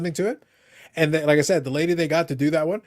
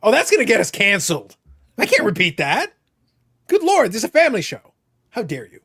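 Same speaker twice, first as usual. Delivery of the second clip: hammed-up prudish scolding, pitched up; mock outrage; 4 semitones higher, 4 dB louder than usual. Host mock-scolding Eric's text as a mock-outraged prude. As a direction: play the scandalized host clutching pearls. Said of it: "I literally be like".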